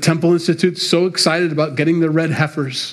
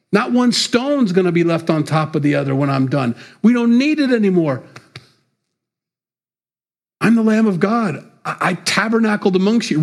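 voicing Jesus; 5 semitones higher than usual. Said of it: "Jesus says".

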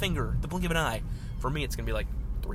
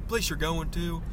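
higher-pitched gate guard impression; Hank Hill; 4 semitones higher than usual. Gate guard corrects himself to visitor, Hank Hill impression. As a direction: put on the cartoon guard's voice. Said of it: "all the people at the gates are Hank Hill".

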